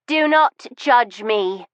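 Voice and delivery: slow, deliberate command, each word set down; cold order. Acted. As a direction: order them not to judge her. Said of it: "she ordered".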